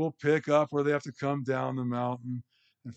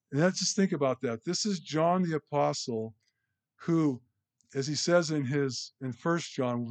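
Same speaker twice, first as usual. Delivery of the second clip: ordinary talk, nothing marked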